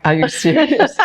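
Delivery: high, startled "are you serious"; squeaky mock incredulity; mock disbelief. Men's startled reply retold.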